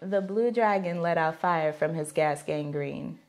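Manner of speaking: deadpan challenge read. Real, not acted. Repeating the phrase for the guessing partner, deadpan. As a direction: recite it low and evenly.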